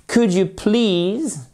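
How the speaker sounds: could said as "kud", no L sound; "could" with a silent L, teacher to class; could without the L. Shown as a demonstration. Teacher models "could you please", L silent. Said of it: "on prononce pas le L".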